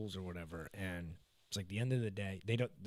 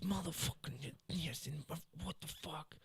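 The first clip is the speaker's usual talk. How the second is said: muttering under breath; 5 semitones higher, 8 dB quieter than usual. Retold or imitated. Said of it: "talking under his breath".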